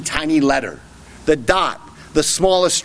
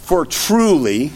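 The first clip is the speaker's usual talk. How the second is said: solemn; 2 semitones lower, slower than usual. Retold or imitated. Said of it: "it's solemn because he opens with".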